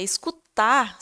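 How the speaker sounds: usual speaking voice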